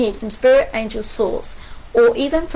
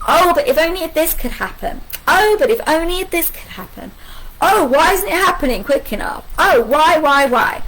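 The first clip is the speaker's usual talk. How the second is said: mock fretting; 4 semitones higher than usual. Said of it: "Why are you saying to yourself".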